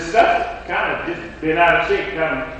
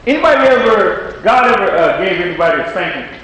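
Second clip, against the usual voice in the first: raised preacher's call; preaching out; 2 semitones higher, 7 dB louder than usual. Real, not acted. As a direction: call the question out to the pews. Preacher calling out to congregation.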